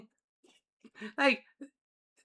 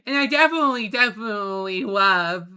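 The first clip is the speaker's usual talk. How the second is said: silly cute voice. Acted. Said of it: "even in these really silly voices".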